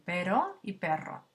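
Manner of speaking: "pero" with one tap, then "perro" with a rolled trill; tap versus trill. Shown as a demonstration. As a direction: set the single r in "pero" against the rolled rr in "perro". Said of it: "la distinción entre los dos tipos de R's".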